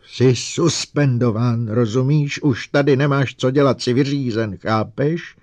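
loud high roar. Acted. Lanning roars at Bogart that he is suspended. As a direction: bellow it like a lion. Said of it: "zařval jako lev".

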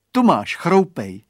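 loud, slow offering; boy voice. A narrator's reading. Boy gives friend carrot, loud and slow. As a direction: hand it over slowly.

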